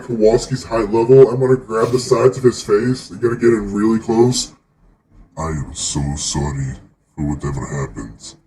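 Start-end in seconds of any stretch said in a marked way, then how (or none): 5.4-8.4 mock solemn apology. Player close to penguin's face.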